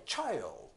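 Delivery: チャイルド said smoothly in one glide; 滑らかに「チャイルド」; smooth child. Shown as a demonstration. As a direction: glide through チャイルド without breaks. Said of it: "滑らかに".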